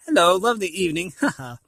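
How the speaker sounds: quick nervous chatter with a forced laugh. Acted. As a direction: babble fast and laugh it off nervously. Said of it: "Fagin chattered on nervously".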